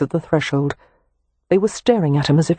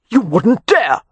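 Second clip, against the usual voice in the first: cried out; 5 semitones higher, 4 dB louder, slower than usual. A narrator's reading. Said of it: "Harrow cried".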